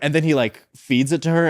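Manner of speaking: ordinary delivery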